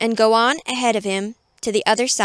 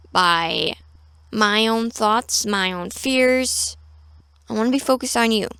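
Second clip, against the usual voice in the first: quiet prayer; 3 dB quieter than usual. Shown as a demonstration. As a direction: pray gently, eyes closed. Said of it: "we go like this".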